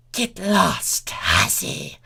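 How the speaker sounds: rising snap ending in a hiss; hissed insult. Acted. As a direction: spit it at the rival. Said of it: "Chrysalis hissed".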